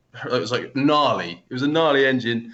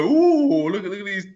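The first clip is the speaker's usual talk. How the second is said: admiring ooh. Retold or imitated. Rider admiring the bikes, cooing. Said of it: "sort of saw my eyes go".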